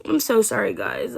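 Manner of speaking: real apologetic whisper through a sore throat. Real, not acted. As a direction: breathe the apology out, no voice. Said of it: "my throat's hurting again".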